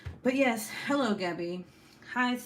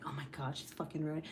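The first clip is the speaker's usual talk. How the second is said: much softer mock gossip; gossiping aside; 4 semitones lower, 9 dB quieter than usual. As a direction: dish it behind her back. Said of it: "secretly talking shit about you".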